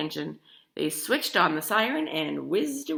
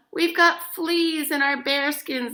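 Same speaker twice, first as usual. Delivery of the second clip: higher, louder, slow guard voice; shrieking guards; 9 semitones higher, 5 dB louder than usual. A narrator's reading. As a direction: shriek it like itchy panicked soldiers. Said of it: "they shrieked".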